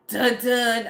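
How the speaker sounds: Law and Order sting. Retold or imitated. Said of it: "that's how it was".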